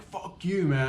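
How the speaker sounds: play-acted angry challenge; mock fuming outburst. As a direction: imitate a dad losing it, without shouting. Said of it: "In the heat of the moment".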